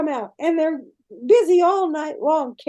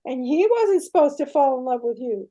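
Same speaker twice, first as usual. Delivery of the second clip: angry goddess; 6 dB louder than usual. Retold or imitated. Aphrodite repeats angry accusation.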